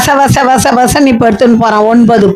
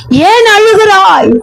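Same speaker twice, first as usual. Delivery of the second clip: gentle husband; 7 semitones higher, slower than usual. Retold or imitated. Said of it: "அவள் புருஷனாகிய Elkanah அவளை பார்த்து".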